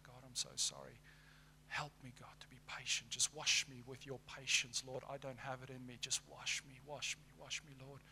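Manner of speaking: softly pleading with God; hushed, acted plea for patience; repentant prayer. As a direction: pray it quietly, as a humble apology.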